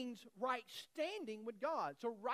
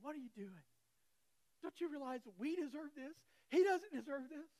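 retold rebuke; 5 semitones higher, 5 dB louder than usual. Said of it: "the other one yells at him".

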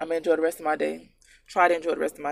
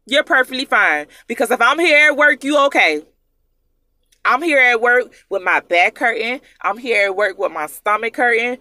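louder, higher, exasperated venting; heated rant; 4 semitones higher, 8 dB louder than usual. Real, not acted. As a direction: vent hard at the lazy excuses. Ranting about employees' excuses.

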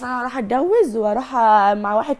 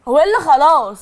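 louder furious challenge; angry retort; 3 semitones higher, 6 dB louder than usual. Real, not acted. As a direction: snap back at him loudly. Wife rejects husband's 'enough'. (رد غاضب بصوت عالي)

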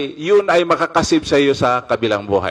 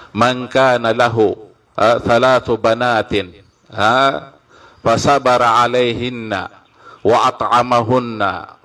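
slow, deliberate recitation of the Arabic; measured Arabic hadith recitation. Acted. Preacher recites the hadith for the congregation, measured and slow. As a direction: recite each clause with care, pausing between.

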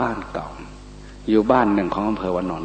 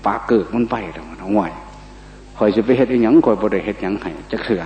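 Isan dialect. Retold or imitated. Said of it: "ว่าซั่น".

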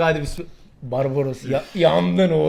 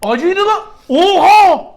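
talking with a burning mouth; 9 semitones higher, 6 dB louder, slower than usual. Real, not acted. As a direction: gasp the words through the burn of hot pepper. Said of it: "yemin ediyorum ağzım yanıyor şu an".

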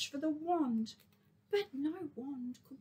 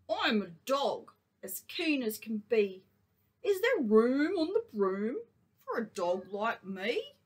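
eager; 6 dB louder than usual. Acted. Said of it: "then eagerly said".

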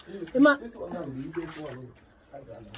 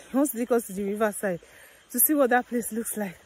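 out of breath. Real, not acted. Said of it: "Guys, I'm panting".

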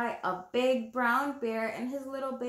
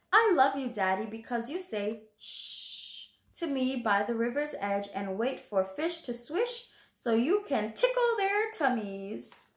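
put-on reading to children. Reading the picture book aloud.

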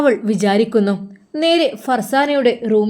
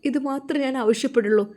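tearful plea; 3 semitones higher, 5 dB quieter than usual. Acted. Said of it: "Farsana ബീവി കരയുകയാണ്".

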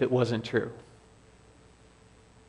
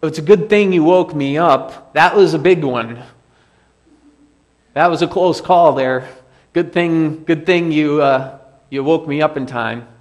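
louder, breezy relieved voice; mock relieved Jesus; 5 dB louder than usual. Preacher voicing Jesus to his disciples, breezy and relieved. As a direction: play it like a close call shrugged off. Jesus' casual hypothetical reply.

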